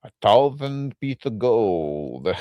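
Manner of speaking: French nerd voice. Retold or imitated. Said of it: "I'm a big fan of your French nerd voice".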